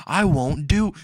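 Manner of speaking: mock scream. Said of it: "starts screaming it".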